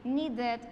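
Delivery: needed in two syllables, "need-ed"; full ED syllable. Shown as a demonstration. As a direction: sound out the -ed ending of needed. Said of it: "va a ser E D". (needed dicho "niid-ed", con ED completa)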